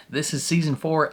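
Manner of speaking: mild southern twang; southern accent. Real, not acted. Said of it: "I don't know why I'm speaking in a southern accent".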